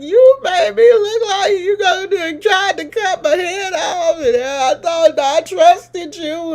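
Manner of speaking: high, teary half-laughing protest, slowing at the end; retold crying complaint. She retells sobbing at the surgeon over her scar, high and teary. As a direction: replay the tearful complaint to the doctor with a crack of laughter. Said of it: "do you know that I started crying".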